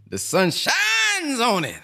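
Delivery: slow, high, booming preacher echo; imitating the minister. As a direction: stretch it out like the minister at full force. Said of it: "gotta come see him".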